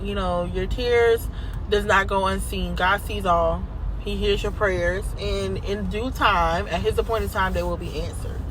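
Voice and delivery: soft, tender reassurance; gentle encouragement. Real, not acted. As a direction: comfort them gently.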